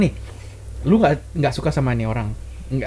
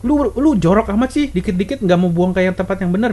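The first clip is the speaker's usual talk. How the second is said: higher, blunt complaint about messiness; frontal scolding; 5 semitones higher than usual. Retold or imitated. Scolding a messy partner the wrong way, frontal scolding. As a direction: nag the messy partner head-on. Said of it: "Ngomongnya langsung kayak gitu, frontal".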